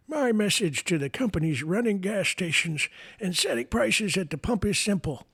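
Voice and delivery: put-on high, creaky old man reading a tweet; Joe Biden old person voice. Host mocking the president's tweet, in a high old man voice. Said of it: "in my Joe Biden old person voice".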